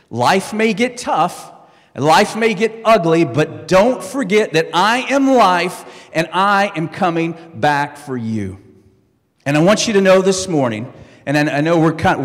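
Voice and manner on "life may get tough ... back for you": full-force pulpit proclamation over music; rising preaching fervor. Acted. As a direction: lift the congregation with a slow, ringing promise. Preacher builds voicing Jesus' promise.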